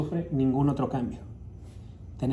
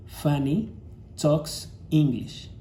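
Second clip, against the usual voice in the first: slow model sentence; much slower than usual. Shown as a demonstration.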